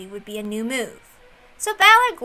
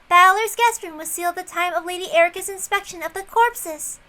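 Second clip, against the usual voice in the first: Dalnor; 6 semitones higher than usual. Acted. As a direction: report it like a stiff attendant. Dalnor reports the seal.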